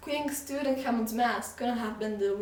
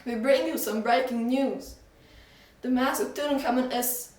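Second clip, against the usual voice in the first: newsreader; 3 semitones higher, 4 dB louder than usual. Acted. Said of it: "The newsreader said".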